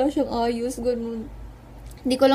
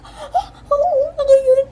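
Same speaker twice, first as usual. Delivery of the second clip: shy laughing reply; 7 dB louder, slower than usual. Retold or imitated. Retold shy reply to fan.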